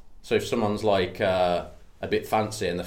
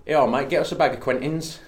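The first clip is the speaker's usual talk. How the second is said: Cockney; 4 semitones higher than usual. Pretend. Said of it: "a rhyming slang one".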